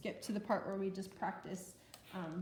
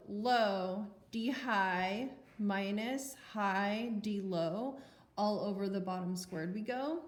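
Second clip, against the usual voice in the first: dorky mnemonic; slower than usual. Shown as a demonstration. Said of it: "the dorky way of remembering this".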